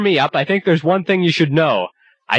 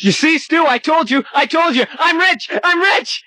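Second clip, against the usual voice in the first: high, giddy and gleeful; excited; 10 semitones higher than usual. Acted. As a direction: crow it with delight. Gloats about inheritance.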